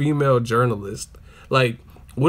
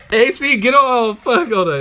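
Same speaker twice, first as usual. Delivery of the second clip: imitated outburst; 9 semitones higher, 5 dB louder than usual. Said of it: "He's like".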